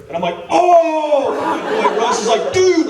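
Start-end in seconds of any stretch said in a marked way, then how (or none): 0.5-1.3 high-pitched fanboy "oh"; awestruck, high exclamation; starstruck gasp. Retold or imitated. Retold starstruck reaction to meeting writer. 2.5-2.9 high, excited mock squeal; hammed-up, high-pitched amazement; thrilled friend. Acting out friend's thrilled reaction.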